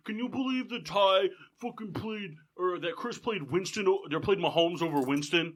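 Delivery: mock angry rant. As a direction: imitate a friend fuming. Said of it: "like, mad that".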